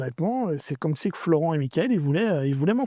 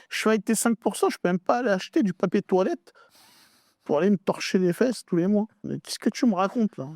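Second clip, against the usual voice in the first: higher-pitched protest, retelling an argument; incredulous complaint, pitched up; indignant retort; 4 semitones higher than usual. Retold or imitated. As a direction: push back in mild indignation.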